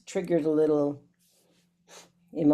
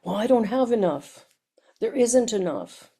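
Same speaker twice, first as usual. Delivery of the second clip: higher, lightly put-on worried voice; mock his old fretful self; imitating his anxious self; 5 semitones higher than usual. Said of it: "I'm like".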